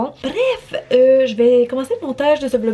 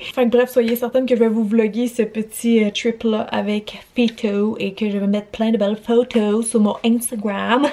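English accent French. Real, not acted. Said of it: "je vous parle avec un accent anglais".

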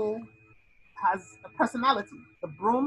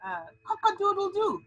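cock-a-doodle-doo crowed higher; rooster crow; 9 semitones higher than usual. Shown as a demonstration. Teacher imitating a rooster for onomatopoeia, higher. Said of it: "words that sound like they are".

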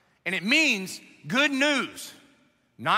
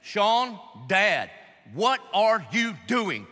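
scolding dad; much slower than usual. Retold or imitated. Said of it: "getting a letter like that from your dad".

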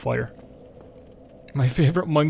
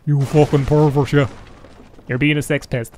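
put-on big Irish accent; 4 dB louder than usual. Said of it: "in the big Irish accent being like".

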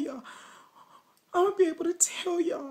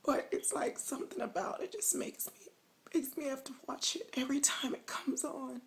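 snotty crying. Pretend. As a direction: fake sobbing, whispery and shaky. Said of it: "Y'all thought I was crying. Not".

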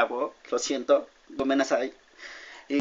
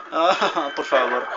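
risa; slower than usual. Real, not acted. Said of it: "me dejé llevar".

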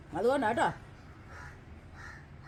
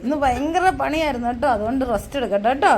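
teasing call; 10 dB louder than usual. Real, not acted. Teasing husband resting, calling loudly.

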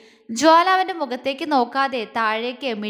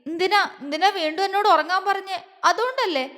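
higher, whiny accusing questions; tearful; 6 semitones higher than usual. A narrator's reading. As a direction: blame him as if about to cry. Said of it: "ആ ഉണ്ട കണ്ണുകൾ വീണ്ടും നിറഞ്ഞു". (വിതുമ്പുന്ന പരിഭവത്തോടെ)

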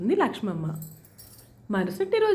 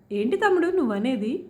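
raised-pitch indignant questions; loud outrage; 6 semitones higher than usual. A narrator's reading. Aunt berates her brother over the marriage proposal, indignant. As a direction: scold in disbelief, voice climbing but not really shouting. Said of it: "వీధి మొత్తం వినిపించేలా గట్టిగా మాట్లాడుతుంది".

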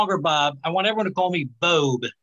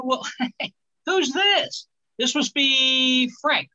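tipsy mother; 5 semitones higher, much slower than usual. Retold or imitated. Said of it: "my mother ... drank a lot".

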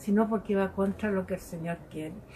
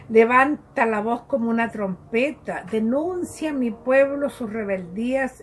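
proclaiming scripture; 2 semitones higher, 4 dB louder than usual. Acted. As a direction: declaim it like a trumpet call. Proclaims Isaiah reading forcefully.

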